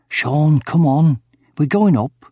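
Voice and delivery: mildly impatient summons; calling to accomplice. A narrator's reading. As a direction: call him to come along. Villain calls to his accomplice.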